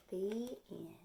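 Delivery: soft hush to close the book; whispered ending. Acted. Reader closing the story for the children, in a whisper. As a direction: breathe the last words.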